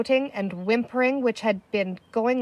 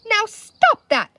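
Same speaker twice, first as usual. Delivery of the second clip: much higher, louder, slow command; sharp cry; 12 semitones higher, 8 dB louder, slower than usual. A narrator's reading. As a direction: snap him out of it. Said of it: "Penny cried".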